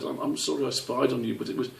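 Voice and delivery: high, halting little squirrel; small child confessing nervously; young squirrel voice. Acted.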